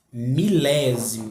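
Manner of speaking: "Milésimo" said slowly, weight on "lé"; stressed antepenultimate syllable. Shown as a demonstration. Teacher showing students the tonic syllable, slow stress on "lé" in "Milésimo". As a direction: stretch the "lé" in "Milésimo". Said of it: "A sílaba tônica aqui é a antepenúltima".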